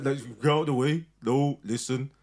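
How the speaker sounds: Birmingham street talk; road Birmingham accent. Shown as a demonstration. Acting out the accent his partner likes, road Birmingham. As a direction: put on a road Brummie accent. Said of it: "road mad Birmingham".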